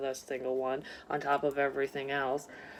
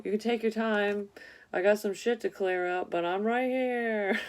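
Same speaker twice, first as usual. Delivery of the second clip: voicing the absent person; 5 semitones higher than usual. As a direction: play the lost partner calling from afar.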